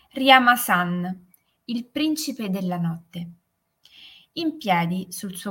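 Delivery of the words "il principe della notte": plain reading voice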